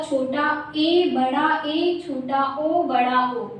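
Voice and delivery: "छोटा ए, बड़ा ए" recited slowly with the same e sound twice; "छोटा ओ, बड़ा ओ" with an identical o in both; old wrong naming. Shown as a demonstration. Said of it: "आपको इस तरह से जो पढ़ाया जाता था".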